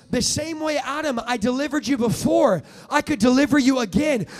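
God's voice. Acted. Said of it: "God goes".

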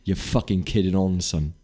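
put-on light Scottish accent; a hint of a Scottish man. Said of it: "Is that your best Scottish accent?".

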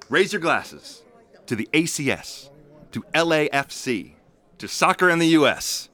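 loud and building toast to the group; rousing toast. Acted. Friend raising a toast to the new supporters group, loud and building.

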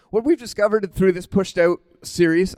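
a crack slips into the voice. Real, not acted. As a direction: voice cracks mid-phrase. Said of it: "my voice just cracked".

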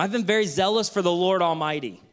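loud complaint. Acted. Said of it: "try his speech one more time".

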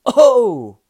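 sudden high, loud mock yelp; startled cry. Gary jolted by the touch, mock startled yelp. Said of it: "his body jumped".

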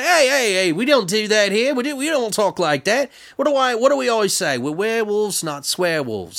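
high mock scolding, like a strict teacher; scolding leader. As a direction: correct the pack firmly. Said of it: "He's like".

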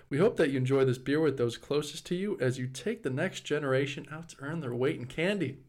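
reading a beer label in a light mock Australian accent; lightly put-on Australian accent, label read like an ad; a hint of Australian accent. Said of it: "can I do an Australian accent?".

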